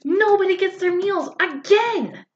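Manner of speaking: high, drawn-out theatrical lament; hammed-up outrage, pitched high; mock exasperation. Real, not acted. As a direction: wail it slowly in comic disbelief. Mock outrage at recurring failed service.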